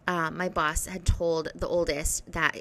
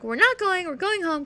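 high, louder fed-up announcement; mock exasperated outburst; retold exasperation; 10 semitones higher, 4 dB louder than usual. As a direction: call it off, voice pitched up in frustration. Retelling angrily calling off trip.

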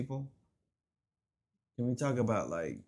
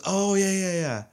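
high, louder eager yeah yeah; relieved worker; 10 semitones higher, 7 dB louder, slower than usual. Retold or imitated. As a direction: agree in relief. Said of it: "And she goes".

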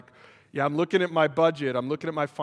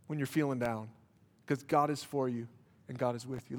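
softer, gentle reassurance; tender consolation; 4 semitones lower, 8 dB quieter than usual. Real, not acted. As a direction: ease down and comfort them. Soft consolation after climax.

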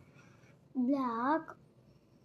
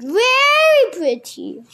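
much higher, louder, excited reply; eager; 10 semitones higher, 14 dB louder than usual. Acted. Pip telling Estella she is very pretty, eager and high. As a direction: gush the compliment.

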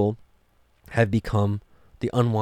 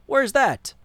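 mock surprise; 14 semitones higher than usual. Real, not acted. Pointed rhetorical aside.

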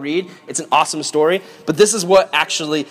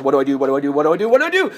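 mock panic; 4 semitones lower, much faster than usual. Joseph spots his brothers, mock panic building.

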